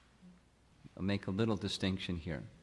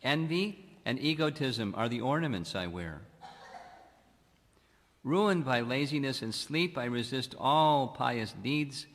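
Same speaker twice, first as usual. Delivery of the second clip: prayer recitation. Acted. Devotee reciting a prayer of humility before God, solemn. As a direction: lay out each line like a confession.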